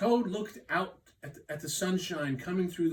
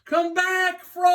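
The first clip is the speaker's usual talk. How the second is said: frantic shout; 12 dB louder than usual. Acted. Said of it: "he shouted".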